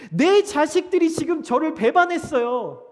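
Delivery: high, loud appeal to a crowd; loud lament. Acted. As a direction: cry out a betrayed parent's grievance. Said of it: "이렇게 가서 하소연을 하고 계신". (큰 소리로 하소연하듯)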